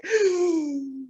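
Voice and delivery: long high venting exhale; letting it out. Retold or imitated. Daughter on mute venting before setting a boundary, long exhale. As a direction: imitate a muted scream let out on a breath. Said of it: "I let it out".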